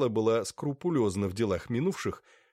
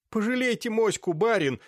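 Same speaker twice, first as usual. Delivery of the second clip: pleading; 12 semitones higher, 5 dB louder than usual. A narrator's reading. Boy begs master for dog.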